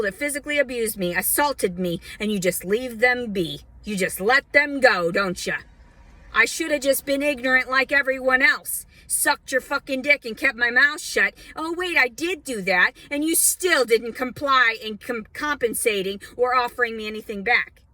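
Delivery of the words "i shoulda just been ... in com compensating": angry. Real, not acted. Bitter rant at authorities.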